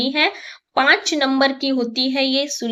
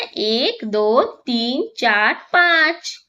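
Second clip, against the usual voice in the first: slow counting; much slower than usual. Shown as a demonstration. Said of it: "counting the butterflies aloud".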